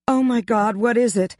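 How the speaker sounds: high startled outburst; exclaiming. A narrator's reading. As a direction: blurt it out in alarm. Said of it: "Tabitha exclaimed".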